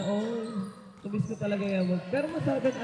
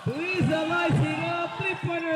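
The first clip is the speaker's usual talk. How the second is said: excited call; 5 semitones higher than usual. Real, not acted. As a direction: hype the shot up. Live basketball play-by-play call. (sigaw na masiglang pagtawag)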